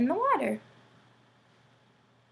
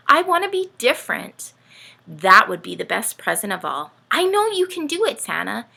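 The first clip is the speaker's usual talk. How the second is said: lightly voiced eager little penguin; child's letter voice; 6 dB louder than usual. Dorothy pleading with Santa in her letter, eager. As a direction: read it as a hopeful child.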